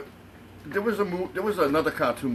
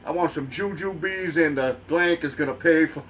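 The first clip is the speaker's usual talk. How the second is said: lightly voiced Italian moviegoer, slow and raised; Eddie Murphy skit; 4 semitones higher, 3 dB louder than usual. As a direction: imitate a cocky comedy-skit character, drawn out. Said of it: "Eddie Murphy does an awesome skit".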